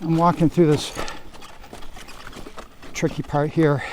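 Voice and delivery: out of breath; heavy panting between words; hyperventilating. Real, not acted. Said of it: "I'm hyperventilating".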